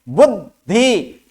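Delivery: बुद्धि drawn out slowly with half द; slow demo. Shown as a demonstration. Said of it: "पूर्व वाला हमेशा आधा होगा". (बुद्धि को धीरे, आधे द के साथ)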